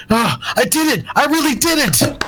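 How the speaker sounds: high, breathless joy; can't believe it worked; elated teen. Acted. Pride Star thrilled after blasting all targets, elated. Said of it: "and he goes".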